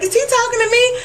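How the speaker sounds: high, confused squeak; lightly voiced clueless girl; mock Jessica. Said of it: "Jessica's like".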